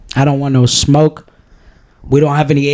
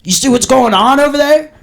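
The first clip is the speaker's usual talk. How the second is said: mocking poster; 8 semitones higher than usual. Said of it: "'Cause it's like".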